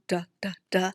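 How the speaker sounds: Duh, duh, duh as short clipped d sounds; letter sound d. Shown as a demonstration. Teacher shows the digging dog's sound, short d taps. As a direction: tap out the d sound three times. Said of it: "as you write his sound".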